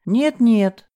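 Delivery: frightened outburst; испуганно. A narrator's reading. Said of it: "испугалась Элиза". (испуганно, выше и громче)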